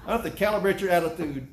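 preacher laughing as he repeats the father's threat. Retold or imitated. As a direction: savor the line while laughing.

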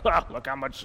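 dry, sarcastic "Well, look how much"; mock-sarcastic aside. Shown as a demonstration. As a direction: sneer it, as if God's love were a joke. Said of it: "not say that in a sarcastic way".

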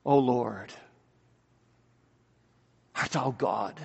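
soft, deep murmur to God; low, doubting prayer. Acted. Struggling believer crying to God under trials, low doubting prayer. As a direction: pray it low and quietly, with a long pause.

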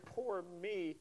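hammed-up woe, slowed; lightly mocking poor-me; mock self-pity. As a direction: play the victim. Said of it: "I feel like a victim".

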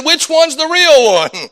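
high, slow imitated child's question; young son. Son asking Dad which Santa is real, imitated child. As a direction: ask Dad like a puzzled kid. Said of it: "He said".

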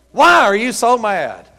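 slow, forceful preacher's question; emphatic repeat. Real, not acted. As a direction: punch out the question to the congregation.

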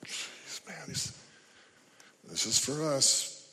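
softly hushed disciples, half whispered. Retold or imitated. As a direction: let the disciples mutter it to each other under their breath. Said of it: "The disciples are going".

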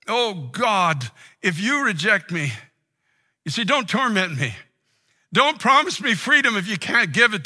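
loud, pleading cry to God; desperate plea. Acted. Preacher voicing a tormented man begging God, loud and anguished. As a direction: beg God not to add to the torment.

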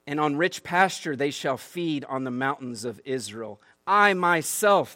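loud, slow, weighty scripture reading that softens at the end; emphatic slow proclamation. Acted. Pastor reads God's promise to the congregation, loud and slow. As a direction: boom out God's promise, then ease into the pastures.

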